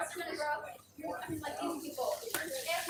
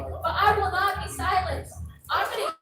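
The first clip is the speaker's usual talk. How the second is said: defiant rising shout; 3 semitones higher, 6 dB louder than usual. Real, not acted. Defiant climax.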